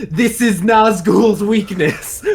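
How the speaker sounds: drawn-out, half-hearted battle yell; mock yell. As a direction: call it out slowly as a mock warning. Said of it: "doing something like yelling".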